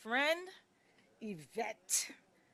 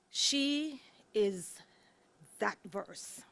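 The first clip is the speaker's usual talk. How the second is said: whispered; much slower than usual. Real, not acted. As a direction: whisper "that verse" with reverence. Hushed emphasis at climax.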